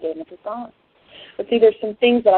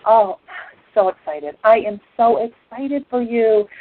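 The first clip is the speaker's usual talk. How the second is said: fake excitement; slower than usual. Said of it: "and I lie".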